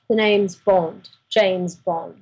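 slow, half-hearted secret-agent impression; lightly put-on spy voice, stretching the words; James Bond. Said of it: "No, do the impression".

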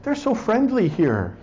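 high, slow dreamy mock stoner; stoned passenger. Passenger tells the driver, slow dreamy stoner voice. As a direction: marvel slowly like a blissed stoner. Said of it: "he turns to the driver and he says".

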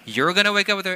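incredulous husband. Retold or imitated. Husband pressing his wife on the early wake-up, incredulous. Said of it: "And I go".

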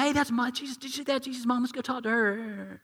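high pitched and hushed, starstruck; excited fan whisper. Pretend. Crowd member nudging friend about Jesus' mom, hushed excitement. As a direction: nudge your friend, thrilled and gossipy. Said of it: "And he goes".

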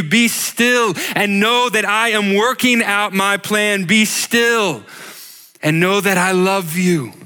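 rising, fervent preaching voice. Acted. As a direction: build to a passionate climax, proclaiming God's promises. Building sermon climax, God's words.

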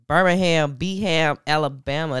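put-on "Birmingham, Beham, Alabama" said the old local way, ending in a strong "ham"; hometown pronunciation. Shown as a demonstration. Host recalls hometown way of saying "Birmingham", local pronunciation. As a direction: punch out "Birmingham", then shorten it to "Beham". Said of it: "That's how we used to say it".

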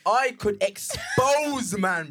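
laughing through the words; cracking up mid-line. Real, not acted. Laughing while teasing exposure.

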